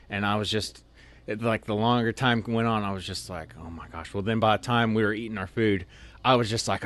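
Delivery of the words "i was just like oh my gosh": strained oh my gosh. Retold or imitated. Needing to pee badly.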